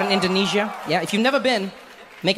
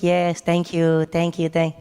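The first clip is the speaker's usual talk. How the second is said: strained host; 3 semitones lower, much slower than usual. Retold or imitated. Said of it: "He's like".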